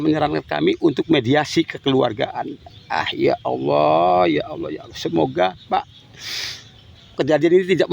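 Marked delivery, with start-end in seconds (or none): 2.9-5.0 anguished lament. Real, not acted. Grieving father breaks down.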